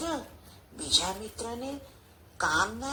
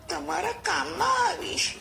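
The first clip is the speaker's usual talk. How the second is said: higher little mouse voice promising help; pleading mouse; 6 semitones higher than usual. A narrator's reading. Mouse promises to help the lion, pleading high voice. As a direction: plead earnestly in a small raised voice.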